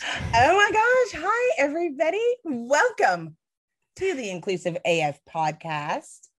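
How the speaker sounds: bubbly, upbeat, cheerful sing-song host voice. A podcast host opens the show impersonating her co-host: mock-cheerful Katie Van Horn impression. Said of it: "trying to impersonate me right now by being all like cheerful".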